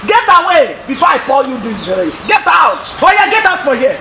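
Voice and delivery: shouting her out of the house; angry shout. Acted. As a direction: drive her out, yelling. Mother chasing daughter out angrily.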